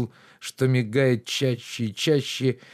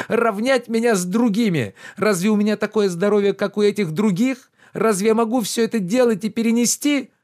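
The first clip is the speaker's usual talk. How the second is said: higher, louder reproachful gentleman; lordly rebuke, pitched up and loud; indignant master Oblomov; 9 semitones higher, 5 dB louder than usual. Acted. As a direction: scold the servant with wounded pride.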